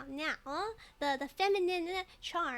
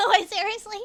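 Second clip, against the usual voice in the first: a joking fake Southern twang, much louder; fake Southern accent; 5 semitones higher, 11 dB louder than usual. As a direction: ham up a Southern accent, half laughing. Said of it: "Southern accent".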